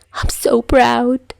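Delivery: high, slow fake-teary pride; mock proud parent. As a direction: overact a proud sniffle.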